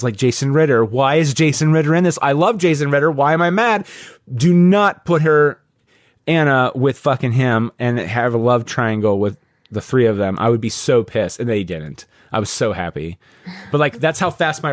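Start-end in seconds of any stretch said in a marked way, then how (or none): none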